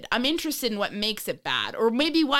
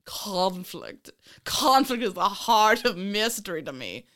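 put-on light British accent. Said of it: "British accent".

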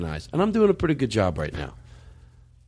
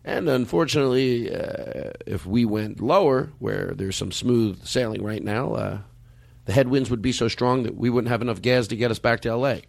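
pilot voice. Retold or imitated. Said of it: "He goes".

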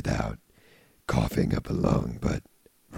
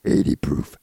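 vocal fry; 3 dB louder than usual. Acted. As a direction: push the words down into fry. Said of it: "vocal fry thing I can do".

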